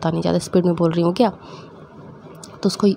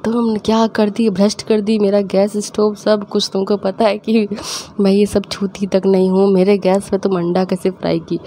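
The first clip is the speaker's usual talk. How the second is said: mock-scold like mom holding a stick; 2 semitones higher than usual. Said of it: "mummy डंडा लेके खड़ी हो गई". (हल्की सी गुस्साई मम्मी की नकल)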